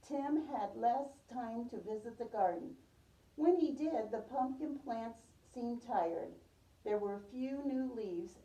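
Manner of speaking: storybook read-aloud for a class; gentle read-aloud voice; reading to children. Acted. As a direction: tell it like a picture book to little kids. Teacher reads picture book aloud.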